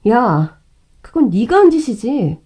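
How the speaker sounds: angry retort. Acted. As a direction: snap back in rage. Wife confronts sister-in-law.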